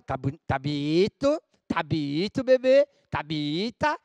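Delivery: slow, drawn-out mock compliment; ironic praise. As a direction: fake admiration, stretching the words. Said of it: "querendo dizer outra". (elogio irônico arrastado e fingido)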